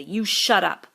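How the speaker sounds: loud, cutting order; fierce. A narrator's reading. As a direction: shut him down hard. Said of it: "Jack turned fiercely".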